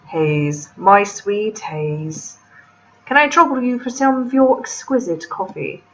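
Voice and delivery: slow, drawn-out British gentleman voice; male British accent. Acted. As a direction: attempt a man's British accent, drawing the words out. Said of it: "hard to do a male British accent".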